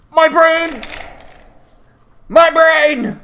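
high, drawn-out wail; mock-agonised cry. Real, not acted. Gamer reacting to a game attack, hammed-up cry. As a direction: wail it like a wounded victim, hammed-up.

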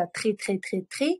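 "très" said over and over with a rolled French r; très drill. Shown as a demonstration. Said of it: "коли я буду казати так декілька разів". (вправа на «très»)

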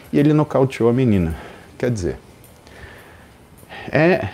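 ordinary talk, nothing marked

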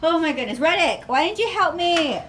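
mock scolding. Real, not acted. Scolding her dog.

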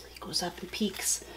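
hushed storyteller, near whisper; sneaky, very soft narration; hushed peeking. A narrator's reading. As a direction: drop to a whisper for the peek.

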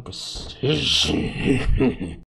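whining, drawn-out why; whiny complaint. Real, not acted. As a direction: moan at the game.

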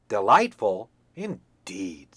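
loud, mocking repeat of delightful; scornful echo. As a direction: sneer back the word Delightful. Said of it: "said the hen".

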